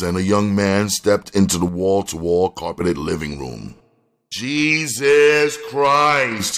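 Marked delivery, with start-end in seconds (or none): 4.3-6.6 very slow, high, loud exclamation; drawn-out cry of disbelief; exasperated exclamation. A narrator's reading. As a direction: stretch both words out in exasperation. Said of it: "he exclaimed".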